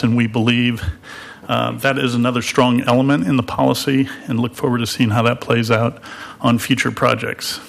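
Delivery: winded from running up stairs; slightly breathless speech; short of breath. Real, not acted. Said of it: "Apologies for being short of breath".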